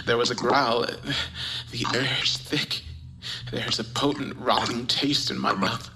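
breathless whispered terror; hushed creeping horror. Acted. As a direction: stammer it out, scared stiff. Terrified after hearing growl.

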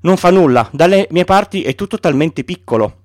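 put-on a child answering seriously; lightly voiced boy, serious; serious Little Prince. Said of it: "ribatté serio".

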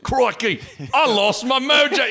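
mock Austin Powers whining about his lost mojo; Austin Powers impression. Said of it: "Austin Powers, like".

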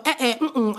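mock scolding grunts; imitated kissing-teeth noises. Showing a friend the sounds Jamaicans make when they kiss their teeth. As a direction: make the little disapproving sounds. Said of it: "we go".

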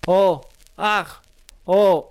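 high, loud mock cries of pain; acted child's cries. A narrator's reading. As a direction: cry out briefly, read from a script. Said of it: "Παιδί, ουρλιάζει και μουρμουρίζει". (παιδικές κραυγές, παιγμένες)

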